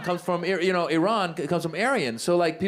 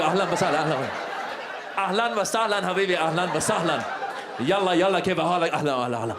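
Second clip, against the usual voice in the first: put-on rapid-fire Arab accent, tumbling downward; hammed-up Arab accent running into babble; fast Arab accent. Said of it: "Arab talk fast".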